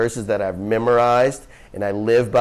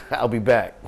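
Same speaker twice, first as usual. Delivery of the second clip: laughing quote. Retold or imitated. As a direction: let the laugh break into it. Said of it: "Gopal said".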